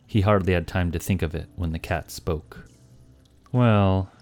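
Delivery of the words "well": sly tomcat voice. Acted. Cat's sly farewell speech.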